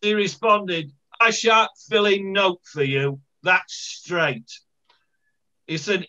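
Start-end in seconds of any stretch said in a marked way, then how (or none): 1.2-4.5 lightly voiced blunt Hunslet woman; a hint of a defiant local lady refusing the official; lightly acted Hunslet dialect; Hunslet housewife. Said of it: "this lady in Hunslet".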